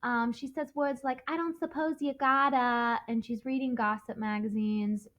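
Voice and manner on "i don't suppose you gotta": lightly imitated New York accent; a hint of Myrtle's New York accent; mock New York accent. Teacher imitating how Myrtle talks, light New York accent. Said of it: "like, New York accent".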